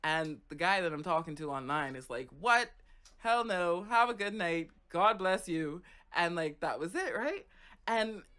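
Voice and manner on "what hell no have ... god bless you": louder, emphatic retold brush-off; mock shocked refusal. Online guy learns she's thirteen and bails, loud mock refusal. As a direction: imitate someone loudly bailing out of a chat. Retold chat partner backing out.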